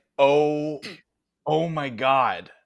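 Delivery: loud, very drawn-out starstruck awe. Voicing a character who recognizes the player: starstruck character voice. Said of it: "He's like".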